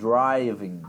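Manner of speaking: "driving" with a heavy curled-back R; tongue pulled back. Shown as a demonstration. Teacher modelling English R for a student, tongue pulled back. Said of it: "com a língua bem".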